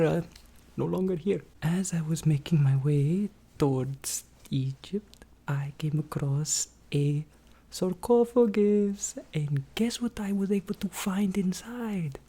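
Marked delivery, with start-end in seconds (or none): 1.6-12.2 whispered storytelling; fast aggressive asmr. Acted. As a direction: whisper the secret.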